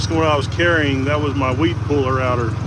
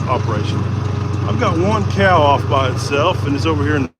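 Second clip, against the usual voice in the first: words shaken by road bumps; on a bumpy road. Real, not acted. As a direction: speak while the truck bounces. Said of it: "Sorry for the bumpy ride".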